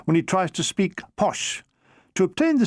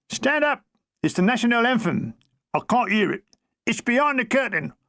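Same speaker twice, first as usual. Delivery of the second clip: high urgent call across the rows; 5 semitones higher than usual. Acted. Soldier in the crowd, urgent high call. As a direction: call out to the men, pitched up. Soldiers shouting over confusion.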